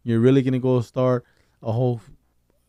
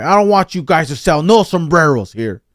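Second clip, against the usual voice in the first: mock complaint; 2 semitones higher, 8 dB louder than usual. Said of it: "I was like".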